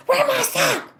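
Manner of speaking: high, loud frantic searching; frantic boyfriend. Retold or imitated. Boyfriend hunting for his sock and shoe, high and frantic. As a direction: play him scrambling for clothes in panic. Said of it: "I can hear him saying".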